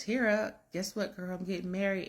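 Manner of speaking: high, bright call to a friend; gushing, calling out the good news; excited news. Retold or imitated. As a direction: bride calling her bestie, high and excited. Bride calls her bestie excitedly.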